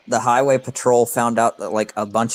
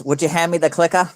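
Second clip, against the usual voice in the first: put-on higher, lightly Boston-accented line; mock Massachusetts accent; 6 semitones higher than usual. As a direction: imitate a Boston speaker asking for the clicker. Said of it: "in Massachusetts".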